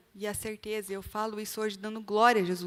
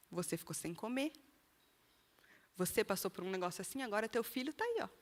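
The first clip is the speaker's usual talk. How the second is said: accusing voice; 2 semitones lower, 7 dB quieter than usual. Retold or imitated. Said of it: "Veio uma voz de acusação".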